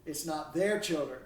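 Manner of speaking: "their" singled out as the word that matters; stress on "their". Shown as a demonstration. Lecturer explaining the key word to students, stress on "their". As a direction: put the main weight on "their". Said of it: "I want to emphasize that word".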